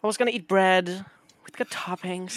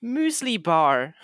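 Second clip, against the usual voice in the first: slow announcement; 4 semitones higher, 3 dB louder, much slower than usual. Real, not acted. Announcing lunch dramatically.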